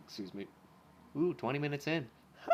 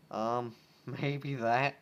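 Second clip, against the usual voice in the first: nervous laugh; 3 dB louder, much slower than usual. Acted.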